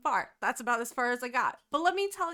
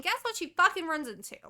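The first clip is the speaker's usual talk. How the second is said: mock-dramatic reveal; 5 semitones higher, 7 dB louder, faster than usual. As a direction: belt it out like a big plot twist. Dramatic reveal, co-host echoes.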